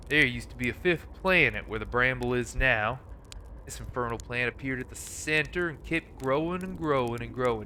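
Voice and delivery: Sam Elliott drawl. Acted. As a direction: ease into a laid-back old cowboy drawl, just a hint of it. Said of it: "give this guy, like, a Sam Elliott drawl".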